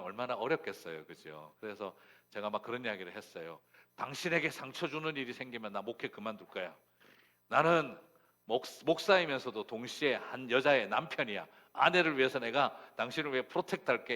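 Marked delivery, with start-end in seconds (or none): 4.0-14.2 loud, raised-pitch promise to a wife; emphatic vow. Retold or imitated. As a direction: declare it forcefully, like a protective husband. Husband vows to protect wife. (힘주어 큰 소리로 다짐하듯)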